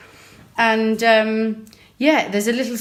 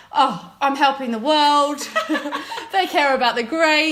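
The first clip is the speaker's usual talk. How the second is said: mock naive self-congratulation; 5 semitones higher than usual. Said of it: "mocking her own naive thought".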